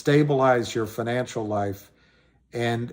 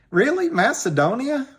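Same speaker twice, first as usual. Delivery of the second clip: surprised; 11 semitones higher than usual. Real, not acted. Surprised a viewer is from Macedonia.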